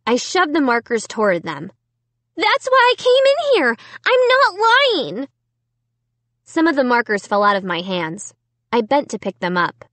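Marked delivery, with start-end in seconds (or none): 2.4-5.3 high earnest plea; pleading. A narrator's reading. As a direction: beg them to believe. Pleading innocence.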